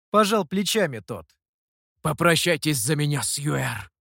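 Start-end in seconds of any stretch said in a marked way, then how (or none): 2.0-3.9 mild mock-heroic farewell; last words of a doomed hero, understated. A narrator's reading. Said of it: "Словно обречённый герой прошептал напоследок". (обречённо, как герой напоследок)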